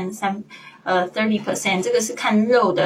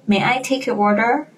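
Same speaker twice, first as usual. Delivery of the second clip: waiter; 4 semitones higher than usual. Acted. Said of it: "A一样是服务员".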